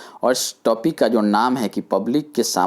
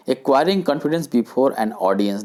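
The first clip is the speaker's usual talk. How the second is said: slow heading; much slower than usual. Shown as a demonstration. Reads point title slowly.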